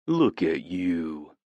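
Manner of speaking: slow teasing sing-song; lilting mock coo. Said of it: "I mock in a sing-song voice".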